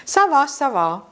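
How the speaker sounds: mild reassurance. Shown as a demonstration. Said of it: "celle qui va très bien et je dis".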